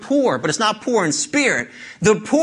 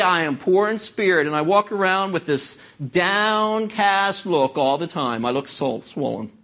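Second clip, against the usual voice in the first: imitating a gloomy believer, sinking low at the end; mock downcast believer; 5 semitones lower than usual. Preacher mocking a gloomy believer, sinking low and dull. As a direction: mocks the mopey Christian with a downcast look, sinking lower. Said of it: "don't get this impression that life is to be".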